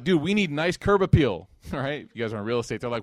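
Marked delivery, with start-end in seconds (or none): 0.0-1.5 excited neighbor. Retold or imitated. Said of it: "So they're like".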